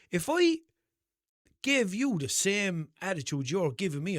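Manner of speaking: high, forceful comeback easing off; indignant retort. Retold or imitated. Driver confronting guard over his attitude, indignant retort. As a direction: argue back hard, as retold.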